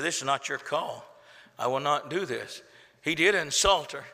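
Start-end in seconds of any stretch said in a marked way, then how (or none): 0.0-2.6 softer, calm refusal; quiet firm refusal. Acted. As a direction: say it low and settled. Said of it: "Jesus said".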